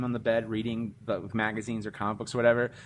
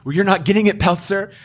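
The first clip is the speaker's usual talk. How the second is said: higher, louder smug taunt; loud snooty boss; 7 semitones higher, 8 dB louder than usual. Retold or imitated. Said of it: "do you think you're gonna be".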